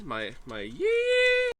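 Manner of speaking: high, drawn-out yeehaw cry; cowboy yell. Shown as a demonstration. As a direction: belt it out like a cowboy. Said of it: "Let me hear your yee".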